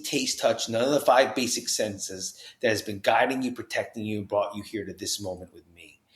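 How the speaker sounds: soft, hushed priest; priest asking gently. Retold or imitated. Priest to rehab patient, soft and earnest. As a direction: lean in and ask him softly. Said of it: "And he goes".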